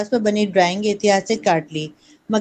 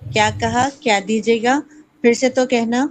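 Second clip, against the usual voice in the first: a touch of shocked disbelief; aunt taken aback by the word; startled aunt; 2 semitones higher than usual. Acted. Aunt hearing the niece's wrong word, mildly startled. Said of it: "وہ اچھل ہی پڑی".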